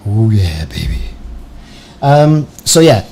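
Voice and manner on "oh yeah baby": Impression of a deep-voiced singer. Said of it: "like a singer".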